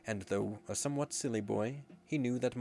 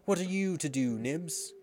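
put-on high, louder boy's question; boy calling out; 6 semitones higher, 4 dB louder than usual. A narrator's reading. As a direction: call to your friend excitedly. Boys rallying one another excitedly.

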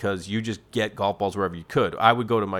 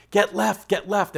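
calling out; 10 semitones higher, slower than usual. Retold or imitated. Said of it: "my other buddy just kept going".

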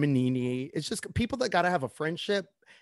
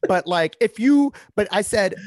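laughing loud protest; louder, laughing through the words; 6 semitones higher, 6 dB louder than usual. Real, not acted. Defending it, laughing.

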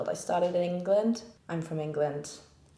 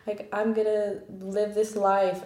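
excited; 5 semitones higher, 4 dB louder than usual. Retold or imitated. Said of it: "being like".

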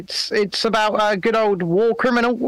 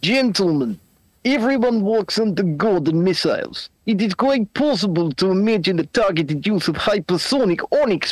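a lightly put-on Russian accent, read out; 4 semitones lower than usual. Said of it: "read this out in your best Russian accent".

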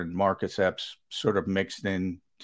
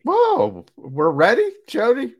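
high, loud burst of excitement; real hyped shout to a co-host; excited shout; 9 semitones higher, 9 dB louder than usual. Real, not acted. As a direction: yell it out, pumped up.

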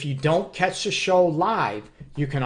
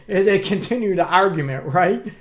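laughing; 3 semitones higher, 4 dB louder than usual. Real, not acted. Laughing at own joke.

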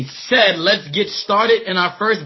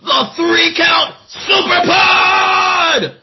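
booming showman announcer intro; ringmaster; 3 semitones higher than usual. Acted.

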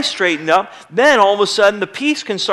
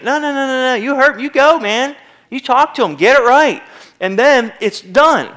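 urging; 4 semitones higher than usual. Real, not acted. Preacher urging men.

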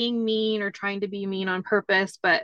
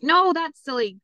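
put-on higher, scoffing child; scoffing kid; 7 semitones higher, 5 dB louder than usual. Son answering parents, high and scoffing. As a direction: dismiss it as silly.

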